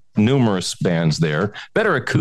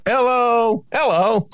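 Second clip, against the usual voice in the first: silly high hello; 12 semitones higher, slower than usual. Acted. Playful hello volley.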